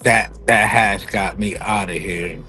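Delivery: slow, stoned drawl; talking high, slow and dazed. Real, not acted. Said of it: "you sound like it too".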